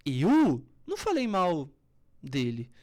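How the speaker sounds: loud, slow, heavy denial; angry denial. Shown as a demonstration. Coach showing the same words said angrily. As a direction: bite out each word in anger. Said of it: "São as mesmas palavras".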